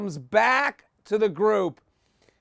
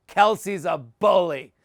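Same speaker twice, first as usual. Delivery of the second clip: slow, pointed tattle in a put-on voice; slow tattling voice; 2 semitones lower, slower than usual. Contestant tattling to the Bachelor about a rival, slow and pointed. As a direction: drop the accusation slowly, like a tattletale. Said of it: "She's like".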